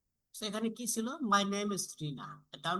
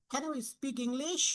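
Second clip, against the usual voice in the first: slow and higher, rising on English; rising intonation; 6 semitones higher, much slower than usual. Shown as a demonstration. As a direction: stretch it out and lift English at the end. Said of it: "এটা হচ্ছে up". (ধীরে, English-এ স্বর ওঠানো)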